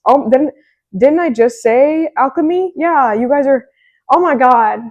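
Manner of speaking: high, loud, thrilled disbelief; excited surprise. Real, not acted. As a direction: gasp it out, delighted the card matched. Realises the card matches her prediction.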